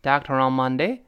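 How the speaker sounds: "Doctor on Monday" with the r running into on; linked words. Shown as a demonstration. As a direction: join doctor and on, dahk-te-ron. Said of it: "如果读快了就连到一块儿".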